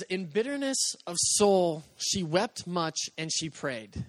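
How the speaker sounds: slow, weighty reading of the verse; scripture reading. Acted. Pastor reading Hannah's verse to the congregation, slow and solemn. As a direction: let each word of the verse land slowly.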